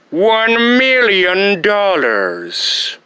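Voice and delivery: slow, savoured villain demand; dramatic pause. Acted. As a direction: draw out each word like a grand threat. Villain names ransom slowly.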